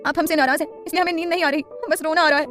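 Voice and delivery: a touch of crying. Acted. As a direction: friend tearfully complaining to the wife, mildly tearful. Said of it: "फिर से रोते हुए बोली".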